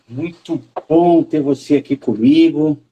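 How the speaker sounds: choppy frozen connection audio; glitchy, breaking-up stream sound; buffering stutter. Real, not acted. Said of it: "só que você tá travando".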